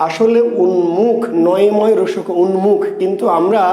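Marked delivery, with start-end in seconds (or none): 0.6-2.8 "উন্মুখ" with a clear n before m; forma scritta. Shown as a demonstration. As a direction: say "উন্মুখ" as un-mukh, n kept. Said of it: "অঞ্চলে উচ্চারণ করি কি".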